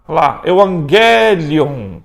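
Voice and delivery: "evangelion" said slowly, the gamma as an N: "e-vang-e-lion"; Greek pronunciation demo. Shown as a demonstration. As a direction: spell out "evangelion" slowly with an ng sound. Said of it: "Pronúncia do gama?".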